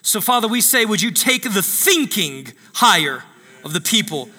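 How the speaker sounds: preaching prayer over the people; prayer declaration. Acted. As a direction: declare it like a pastor praying.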